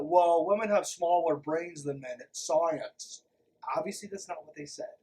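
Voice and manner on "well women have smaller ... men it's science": mocking a sexist man. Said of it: "This sounds like the".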